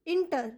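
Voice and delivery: inter said as a separate chunk; pronunciation demo. Shown as a demonstration. Teacher turns letters into sound, inter isolated clearly. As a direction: sound out inter as "in-ter", set apart.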